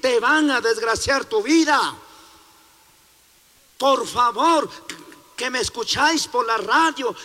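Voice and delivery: fervent radio sermon; preaching at full force. Acted. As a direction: urge the listeners to read the Bible. Preacher warns the radio audience.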